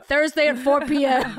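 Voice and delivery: slow promo announcer read. Pretend. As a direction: announce the time slot like a network ad.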